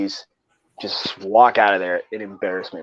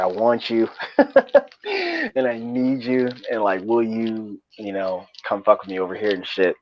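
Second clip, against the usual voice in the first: laughing through the retold proposal; slower than usual. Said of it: "I was like".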